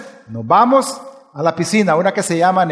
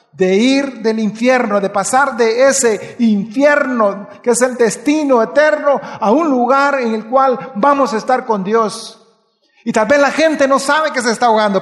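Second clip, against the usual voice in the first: raised, pressing sermon voice; preaching; 2 semitones higher than usual. Acted. Preacher urging the congregation toward salvation, raised and fervent. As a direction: drive the message home to the church.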